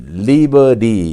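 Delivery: American "리버리", T softened to a flap; drawn-out American flapped "리버리"; American pronunciation. Shown as a demonstration. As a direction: say "리버리" the American way, R-coloured middle. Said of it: "이렇게 하는 것은 미국식 발음이에요".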